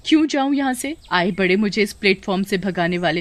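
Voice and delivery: mildly indignant defiance; defiant retort. Acted. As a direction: stand your ground and sneer at a bully. Girl defies the bullying porter.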